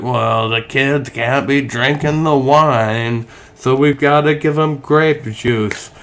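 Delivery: put-on light Southern preacher accent, slowed down; a hint of a drawling Southern evangelical mocking the church; lightly put-on Southern evangelical accent; evangelical Southerner voice. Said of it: "I know I'm doing my evangelical Southerner voice".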